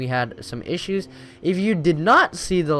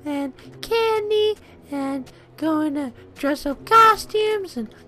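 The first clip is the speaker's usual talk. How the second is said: excited; 8 dB louder, slower than usual. Real, not acted. Hyped Halloween excitement.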